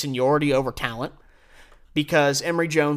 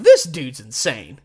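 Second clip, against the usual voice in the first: amazed exclamation; 4 semitones lower, 7 dB louder, slower than usual. Retold or imitated. Amazed look at dad watching.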